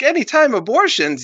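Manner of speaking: very high mock-shocked question; incredulous echo. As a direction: repeat it back in disbelief. Crowd echoes him in disbelief.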